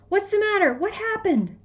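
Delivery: high, alarmed yell; loud, urgent questions. A narrator's reading. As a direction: call out in alarm after a runner. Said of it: "somebody yells behind me".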